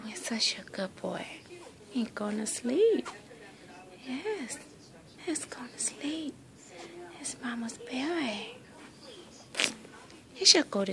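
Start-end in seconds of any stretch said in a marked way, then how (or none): 0.1-8.6 whisper. Real, not acted. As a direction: hush him toward sleep. Whispering baby to sleep.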